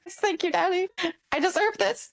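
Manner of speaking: high, breathy-free pleading squeak; hammed-up high grateful voice; mock submissive. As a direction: play the grateful naughty employee.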